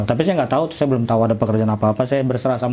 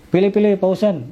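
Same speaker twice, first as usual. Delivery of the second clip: high-pitched, lightly acted invitation; acted generous offer in a raised pitch; generous urging; 8 semitones higher than usual. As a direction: urge him to choose, pitched up high. Acted mosque official offering clothes.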